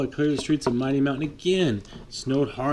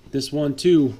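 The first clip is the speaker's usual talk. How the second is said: louder, quicker urgent call; urgent foreman; 3 semitones higher, 6 dB louder than usual. Acted. Foreman Will warning of the storm, louder and urgent. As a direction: warn the crew fast. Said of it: "Will said".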